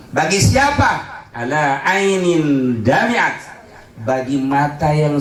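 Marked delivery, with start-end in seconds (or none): 1.4-3.6 slow chanted Arabic; slow solemn Arabic chant; slow recitation. Real, not acted. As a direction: intone the hadith slowly.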